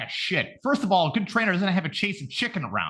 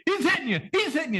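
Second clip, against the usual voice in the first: imitating Apollo; 12 semitones higher, much faster than usual. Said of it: "like, continuously".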